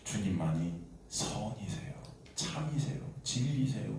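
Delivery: soft, low, spaced-out phrases; reverent confession. Acted. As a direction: confess quietly, pausing after each phrase. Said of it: "고백되는 거예요". (나직이 끊어 말하는 경건한 고백)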